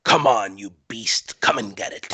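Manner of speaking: a hint of a warrior daring the beast; in-character taunt. Player taunts the charging orc, low in-character challenge.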